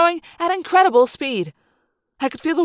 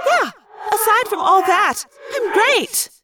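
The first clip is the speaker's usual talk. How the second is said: higher-pitched, pointed delivery; sarcastic retort; 9 semitones higher, slower than usual. A narrator's reading. Rachel answering her friends in the water, sarcastic retort. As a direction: toss it back with mock cheer.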